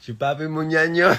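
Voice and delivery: high, loud catchphrase yell; playful shout. Pretend.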